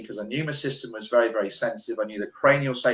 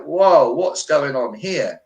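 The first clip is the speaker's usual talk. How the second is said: startled; 3 semitones higher, 5 dB louder, slower than usual. Retold or imitated. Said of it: "I was like".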